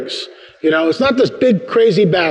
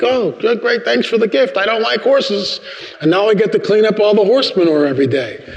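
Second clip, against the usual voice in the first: sarcastic thanks, pitched up; mock disgruntled; 4 semitones higher than usual. Unhappy camper thanking God for an unwanted gift, sarcastic. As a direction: grumble through fake gratitude. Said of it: "I'm not happy camper at all".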